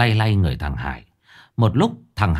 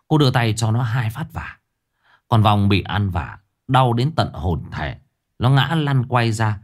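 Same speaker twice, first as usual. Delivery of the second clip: plain reading voice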